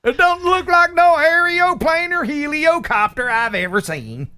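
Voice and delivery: high, slow put-on Southern redneck drawl. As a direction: ham up a hick Southern accent, pitched high. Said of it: "you have rednecks in North Dakota?".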